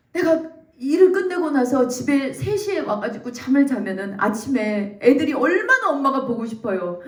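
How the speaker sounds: ordinary talk, nothing marked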